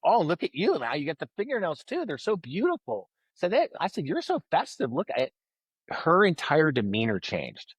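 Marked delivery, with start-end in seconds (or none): 0.0-5.3 higher, fawning praise of her nails; bright high gushing flattery; gushing compliment. Retold or imitated. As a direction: lay the admiration on thick, up high. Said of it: "I was like".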